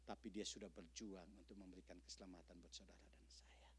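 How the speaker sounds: a near-silent whispered aside; hushed whisper. Real, not acted. Preacher whispering the sacrifice to the congregation, hushed. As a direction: breathe it out in a whisper, barely voiced.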